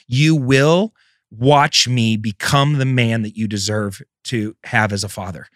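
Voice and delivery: measured, insistent list of promises; resolute vow. Retold or imitated. Father silently vowing to his daughter, retold with resolve. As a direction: pledge each item firmly, in a repeating cadence.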